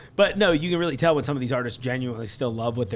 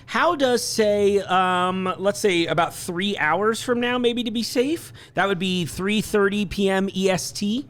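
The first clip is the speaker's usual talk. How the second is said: bright, high customer-service voice; polite phone voice; 5 semitones higher than usual. Real, not acted. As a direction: put on your sweetest phone manner. Same phone call continues.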